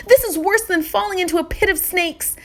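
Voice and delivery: fast, anxious pleading; boy panicking to his mother; distressed boy. Acted. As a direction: rush the words in dismay. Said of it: "he cried".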